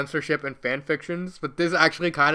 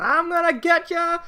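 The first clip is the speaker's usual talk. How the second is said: higher, louder, slow threat; threatening shout; 11 semitones higher, 5 dB louder than usual. Acted. Sandy threatens while chasing, shouting. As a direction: menace them as you chase. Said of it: "Sandy's chasing after her and said".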